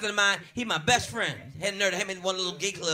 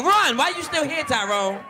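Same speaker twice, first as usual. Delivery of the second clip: much higher, louder yell; mock yell; 7 semitones higher, 5 dB louder, slower than usual. Cop yelling at the lingering suspect, high and loud. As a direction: shout at him to run.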